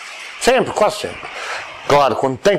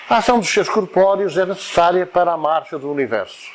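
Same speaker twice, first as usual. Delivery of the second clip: whole phrase in one run with a measured pause after UNIVERSO; semicolon reading. Shown as a demonstration. Teacher demonstrating a semicolon, phrased as a paused comma. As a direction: read through to UNIVERSO, then pause as at a long comma. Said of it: "Corresponde a uma vírgula pausada".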